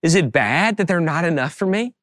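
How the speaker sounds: gently imitated daughter's question, rising at the end; kindly child. Young daughter asking her dad about her toys, kindly. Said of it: "she said it so kindly".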